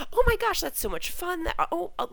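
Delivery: high, gushing mom voice; delighted mom imitation. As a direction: gush like a thrilled parent. Retold delighted mom agreeing.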